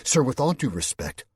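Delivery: calm him down; Suzanne, firm reassurance. A narrator's reading. Suzanne urging the colonel to trust, firm and earnest.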